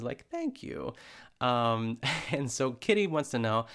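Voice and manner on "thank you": a much higher mock thank you to the camera; hammed-up on-air gratitude; imitating Ina to camera. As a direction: chirp it sweetly at an imagined camera. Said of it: "looks at the camera and says".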